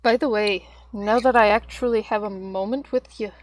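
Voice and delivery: talking while chewing; words round a crunchy bite; crunching chips. Real, not acted. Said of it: "Forgive the crunching".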